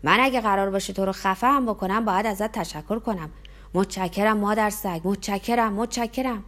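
put-on the drunk shouting thanks while holding him down. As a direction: yell the thanks over and over.

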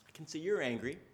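calm a hurt son kindly; gentle father. Retold or imitated. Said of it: "Dad says".

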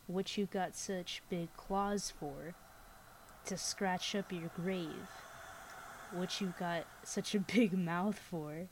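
spooky storyteller reading aloud; story narration. A narrator's reading. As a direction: tell it like a campfire ghost story. Reads scary story aloud.

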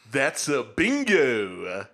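slow, high, loud mock German accent; hammed-up German-accented movie villain, slow and loud; Christoph Waltz's German accent. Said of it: "I'll try to do the accent".

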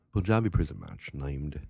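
put-on British accent. Shown as a demonstration. Podcaster starts reading match rules aloud, British accent. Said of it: "with a British accent".

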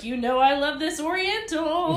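imagined friend. Pretend. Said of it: "I can picture his friend coming down like".

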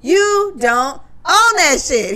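imitating Joe, loud, pitch jumping up and slowing; mock heated rant; heated retelling. Joe telling off the hosts, heated and loud.

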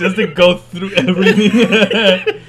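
slow, loud and drawn out; amazed exclamation. Real, not acted. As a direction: stretch it out in disbelief. Reacting to the long trek back.

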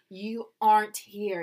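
"aren't" slowed with a sounded R; American "aren't". Shown as a demonstration. Actor tests how Americans say it, careful American "aren't". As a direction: lean on the R in "aren't". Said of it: "How do Americans say aren't?".

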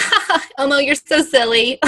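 playful laugh into an amused remark. Retold or imitated. Viewer chuckling at Elmo on TV, amused laughing. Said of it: "I would laugh. I'd be like".

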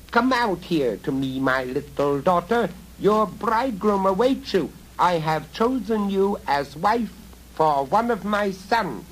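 high, loud wheedling goblin call; goblin man calling. A narrator's reading. Goblin father luring girl to marry his son, high coaxing call. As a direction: coax her out, sly and shrill.

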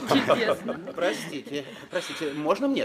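high laughing delight. Acted. Guest laughs while asking chairman for the floor, laughing. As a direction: laugh through the words.

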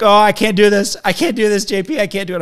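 high-pitched mock panic; imitated falling apart. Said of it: "he would fall apart".

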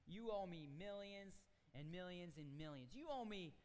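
slow insistent demand for repayment; stern king. Acted. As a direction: lean on each word as the king calls in the debt. King confronts debtor.

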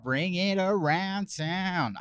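laughing. Real, not acted. Laughing repeat, slow.

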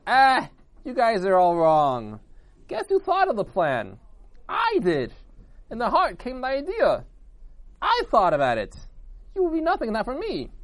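loud, high, emphatic claim; drawn-out, self-important outburst; boastful arguing. A narrator's reading. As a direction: shout down the others and take credit. Heart outdoes the others in quarrel.

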